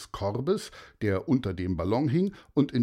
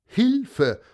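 high, louder shout of help; cry for help; 12 semitones higher, 7 dB louder than usual. Acted. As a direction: call for help from far up. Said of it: "die riefen gar nicht Hallo sondern".

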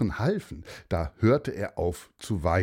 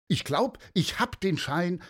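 put-on higher, eager boy calling out; hopeful call; 8 semitones higher than usual. Malte calling to the searchers, higher and hopeful. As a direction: certain he has it. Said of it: "rief Malte".

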